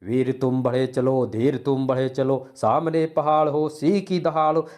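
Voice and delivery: brisk, rousing heroic recital; enthusiastic correct reading. Shown as a demonstration. Teacher showing the right way to read it, spirited. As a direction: recite it with marching zeal, building as it goes. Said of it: "इस कविता को कैसे पढ़ेंगे?".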